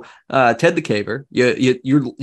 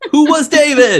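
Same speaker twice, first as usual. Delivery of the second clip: laughing; 8 dB louder than usual. Acted. Mock dramatic question, laughing.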